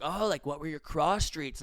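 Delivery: lightly voiced chill driver; super high guy. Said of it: "guys who sounded super high".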